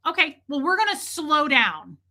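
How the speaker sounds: deliberate slowing. Retold or imitated. Retold customer slows the server down.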